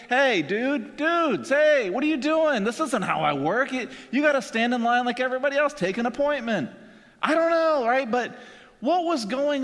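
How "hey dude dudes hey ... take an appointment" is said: higher-pitched, hurried telling-off; mock yell. Jesus telling off the men who cut in line, mock yelling. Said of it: "Jesus could have yelled at him".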